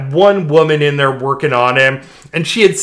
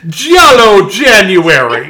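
put-on slow, loud stereotypical Italian accent; fake Italian accent; 3 semitones higher, 6 dB louder, slower than usual. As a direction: roll it out like a cartoon Italian. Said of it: "bullshit fake Italian stereotypical accent".

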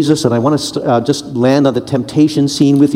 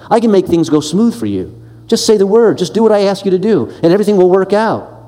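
sly coaxing tempter; 5 semitones higher than usual. Acted. Satan's tempting offer.

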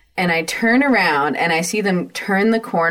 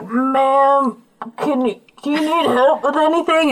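polite cops; 7 semitones higher than usual. Retold or imitated. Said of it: "And they're like".

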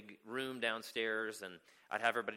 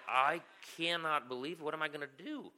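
retold dismay; 4 semitones higher, 3 dB louder than usual. Carer left alone with the problem, retold dismay. Retold panic at the boy's call.

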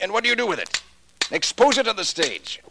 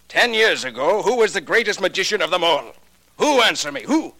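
raised voice, demanding an answer; proud demand; 2 semitones higher, 4 dB louder than usual. Acted. Pop confronts Mento about his lost fame, raised and demanding. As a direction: thrust each question at him, bitter pride.

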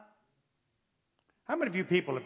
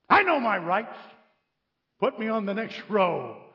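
mock indignation; 4 semitones higher than usual. Mocks an indignant passenger's demand.

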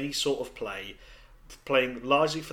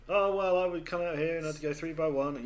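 Tony Romo impression; 4 semitones higher than usual. Impersonating Tony Romo analysis.

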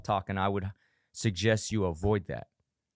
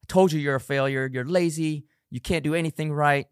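higher, scolding inner critic; nagging self-talk; 5 semitones higher, 4 dB louder than usual. Pretend. Inner critic berating you over the skipped workout, mock scolding. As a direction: berate yourself for being lazy. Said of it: "You're talking to yourself".

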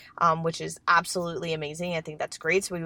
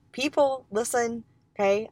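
calling out; 5 semitones higher than usual. Real, not acted. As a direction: call out to grab their attention. Repeats word to call attention.

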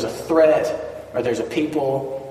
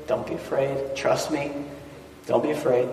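soft reassurance; 5 dB quieter than usual. Retold or imitated. God's reassurance, dropping softer.

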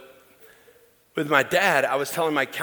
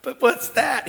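high mock reply; 13 semitones higher, 6 dB louder, slower than usual. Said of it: "I'm going".

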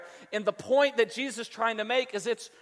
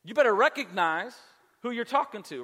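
stern parent warning. Retold or imitated. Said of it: "I'll say things like that".

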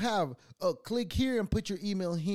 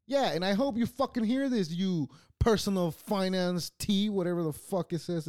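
louder, higher angry rant at the scammer; angry callout; 5 semitones higher, 4 dB louder than usual. Real, not acted. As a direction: yell it straight at the guy who scammed you. Ranting directly at scammer.

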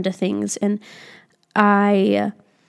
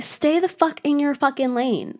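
scolding myself; 5 semitones higher, 4 dB quieter than usual. Real, not acted. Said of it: "I'm speaking out loud to myself".

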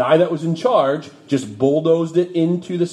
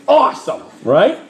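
laughing; 5 semitones higher, 5 dB louder than usual. Real, not acted. Laughing at the cute couple.

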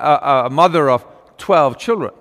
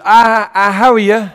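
a lightly voiced old Irish beggar woman, a little higher; sweetly asks the boy to fetch his mother, pitched higher; Mrs O'Brien's voice; 5 semitones higher, 4 dB louder than usual. Old beggar at the door asking for the mother, lightly voiced. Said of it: "and she says".

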